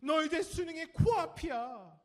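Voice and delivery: very high, loud, slow mock nag; hammed-up parental alarm, drawn out; nagging parent. Parent to a final-year student before exams, mock nagging. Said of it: "고삼이 되면 이렇게 얘기해요".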